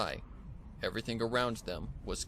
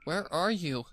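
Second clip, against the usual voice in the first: calling out; 8 semitones higher, 5 dB louder than usual. Acted. Child calling into dark cave.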